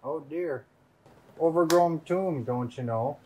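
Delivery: put-on British accent, lightly done; fake British accent. Player hamming a fake British accent at the game table. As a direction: play the Brit to the table, mildly. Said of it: "Listen, the accent supersedes game actions".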